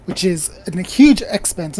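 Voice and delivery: posh lecturing tone. Acted. Gak explaining the Astral Sea, very posh voice. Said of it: "in a very posh voice".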